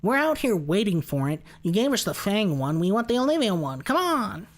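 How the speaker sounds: loud, high, worked-up complaint; pleading fan. Acted. Nobody adding them about the Olivia desktop pet, pleading loudly. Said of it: "adding them and being like".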